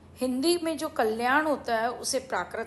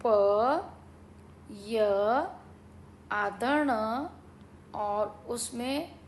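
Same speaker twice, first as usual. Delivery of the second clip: sounding out words; slower than usual. Shown as a demonstration. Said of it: "पयन्नो कैसे लिखेंगे?".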